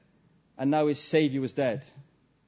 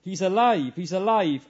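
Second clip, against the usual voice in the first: retold joyful shout; 3 semitones higher, 5 dB louder than usual. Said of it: "He shouted for joy".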